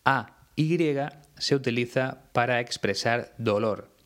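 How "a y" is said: each letter of "A Y" named clearly and apart; deliberate spelling of "A Y"; spelled out. Shown as a demonstration. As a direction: spell out "A Y" one letter at a time. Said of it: "la interjección hay".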